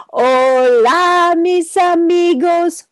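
Spanish hola, mis amigos; Spanish greeting. Shown as a demonstration. Teacher models a Spanish greeting for kids to echo. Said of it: "let's try Spanish".

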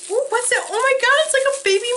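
very high, loud squeal; real squeaky-high excitement; excited squeal. Real, not acted. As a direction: squeal with delighted curiosity. Discovers tiny mug.

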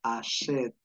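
"Achète" with the second vowel held a little; slightly lengthened vowel. Shown as a demonstration. Teacher showing the grave accent, lengthened vowel in "Achète". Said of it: "alargas un poquito la vocal".

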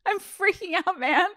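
can't keep a straight face on the quote; laughing at her own freak-out; laughing through it. Retold or imitated. Repeats the quote while laughing.

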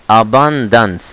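ABUNDANCE in three syllables, a-BAN-dans; correct pronunciation. Shown as a demonstration. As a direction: say "abundance" with the middle syllable restored and stressed. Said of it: "اسمها".

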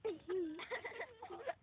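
mock Irish laugh. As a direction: fake a silly Irish laugh on request. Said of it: "try an Irish Dan laugh".

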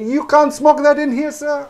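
high, loud mock telling-off from the cafe staff; a cafe worker loudly ordering him to stop vaping, mock scolding; scolding staff member. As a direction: bark it at the customer like a jobsworth waiter.

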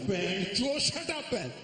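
dad yelling. Retold or imitated.

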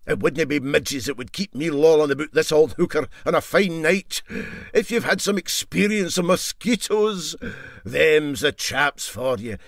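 a hint of a cocky old sailor showing off; MacPhail the engineer. MacPhail brags to the crew about mosquitoes, lightly voiced.

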